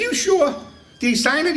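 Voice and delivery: teasing, high-pitched fake surprise; mock disbelief. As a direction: press him with innocent disbelief. Baiting the chief in retold story.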